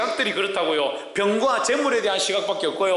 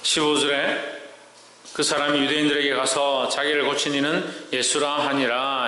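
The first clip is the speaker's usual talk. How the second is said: low, even-toned Bible reading; scripture reading; 4 semitones lower than usual. Acted. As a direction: read the verse in a level, measured chant. Reads scripture to congregation.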